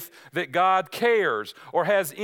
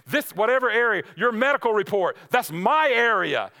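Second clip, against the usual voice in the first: Satan taunting; 4 semitones higher than usual. Retold or imitated. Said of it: "He's telling you".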